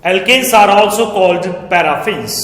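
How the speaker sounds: very slow, each word spaced for note-taking; slow dictation. Shown as a demonstration. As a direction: dictate it word by word so students can write. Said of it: "check करते हैं पहले इन्हें क्या बुलाते हैं". (धीमा dictation, शब्द-शब्द अलग)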